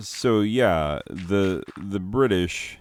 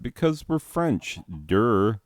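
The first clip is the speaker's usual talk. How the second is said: high-pitched, silly 'duh' delivery; mock-obvious answer; 5 semitones higher than usual. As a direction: state it as if absurdly obvious. Mock answer to own question.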